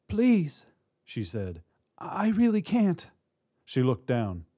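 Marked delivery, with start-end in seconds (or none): 0.1-1.6 high-pitched begging; frightened plea. Acted. Woman at gunpoint to robber, frightened plea. 2.0-3.1 high, slow, helpless voice; frightened plea. Acted. Woman on crutches to robber, helpless plea. Hostage pleading at gunpoint.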